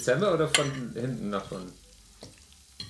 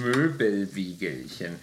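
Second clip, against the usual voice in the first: cheeks puffed full of air; mouth full; 4 semitones lower, slower than usual. Shown as a demonstration. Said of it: "mein Mund war voll mit Luft".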